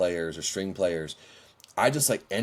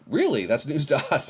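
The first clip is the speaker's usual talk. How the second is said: teasing disbelief; 6 semitones higher than usual. Retold or imitated. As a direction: imitate friends ribbing him. Peers teasing him about calling.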